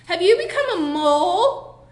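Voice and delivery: put-on high, loud taunting kid voice; loud schoolyard taunt; mocking bully. A narrator's reading. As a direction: jeer it like a playground bully. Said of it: "he laughed".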